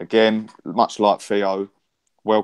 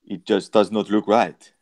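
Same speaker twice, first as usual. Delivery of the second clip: lightly imitated, slow and deliberate quote; a hint of impression, measured and slow; Thierry Henry; 3 dB louder, slower than usual. Fan quoting a pundit on Sky Sports News, lightly imitated. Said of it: "said it in a French accent".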